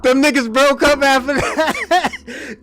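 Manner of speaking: slow, laughing through the words; amused, drawn-out delivery. Real, not acted. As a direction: chuckle it out slowly. Laughing retelling of friends' breakup.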